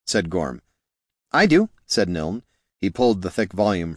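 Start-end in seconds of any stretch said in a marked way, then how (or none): 1.3-1.7 higher, eager priest voice. A narrator's reading. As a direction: pitch it up, earnest. Niln character voice.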